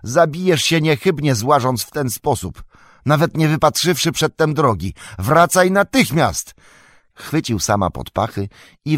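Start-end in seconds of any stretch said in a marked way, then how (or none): 0.0-6.5 high, loud pleading, slowing on the order; urgent call. A narrator's reading. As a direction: call Sam back from the edge. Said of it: "zawołał Frodo". (wysoko i głośno, naglące wołanie)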